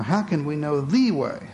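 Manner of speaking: "the" stressed, falling tune. Shown as a demonstration. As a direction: lean on "the way". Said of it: "different inflections".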